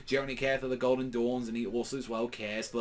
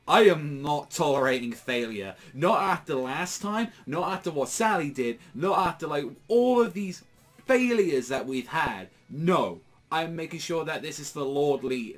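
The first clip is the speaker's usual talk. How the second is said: raised, forceful voice, driving each not home; commanding villain; 3 semitones higher, 5 dB louder than usual. Retold or imitated. Valtos refuses failure, rallies the others, loudly commanding. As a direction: lay down the law to his failing squad.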